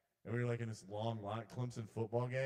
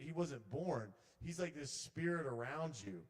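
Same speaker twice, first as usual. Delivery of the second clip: intuitive healer; 4 semitones higher than usual. Acted. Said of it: "She's like".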